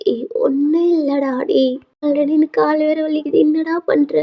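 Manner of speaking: lightly voiced grandmother. Injured grandmother to crying hugging grandson, fond chiding. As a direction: soothe and gently chide as grandmother.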